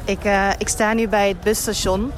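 muffled through a mask; speaking behind a mask; through a face mask. Real, not acted. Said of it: "ik praat door een masker, dus dat klinkt ... gedempt".

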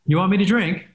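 a playful take on a British-tinged upswing; imitating Tayshia's British lilt. Host teasing Tayshia's hints of a British accent, mock British lilt. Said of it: "she kinda goes up sometimes".

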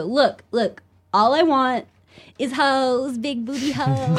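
imitating Colin. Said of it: "and he'd go".

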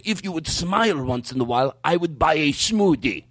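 deliberate, slowing accented impression; imitated acquaintance's voice. Man repeats his customer's complaint, deliberate imitated voice. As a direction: imitate him quoting, slowing toward the end. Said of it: "I'm going word for word".

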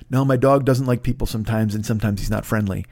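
low, understated imitation of a polite owner; apologetic dog owner. Voices the dog owner again.

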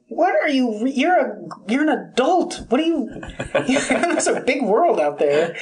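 high, mocking reproach; scolding onlooker. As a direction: scold like a judging passerby. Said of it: "someone would come in".

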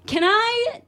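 imitating Colin's pauses. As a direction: drag it out with long pauses, lightly mocking. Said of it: "he pauses too much".

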